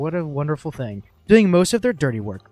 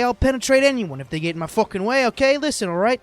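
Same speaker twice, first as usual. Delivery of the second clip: put-on Brooklyn accent; 6 semitones higher than usual. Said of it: "this fucking Brooklyn guy".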